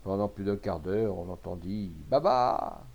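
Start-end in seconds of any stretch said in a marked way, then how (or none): 2.1-2.8 very high, loud spell words; loud incantation. A narrator's reading. Rabalan chanting at the machines for ages, high loud cries. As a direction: shriek out each magic word separately. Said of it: "en clamant d'une voix forte".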